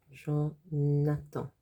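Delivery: Jonathan drawn out to show jaune attend; slowed Jonathan. Shown as a demonstration. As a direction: stretch Jonathan out slowly. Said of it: "it sounds like the colour jaune".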